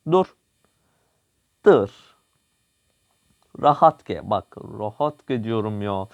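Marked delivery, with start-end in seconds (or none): 0.1-2.2 urgent stop. Real, not acted. Urgent gameplay command.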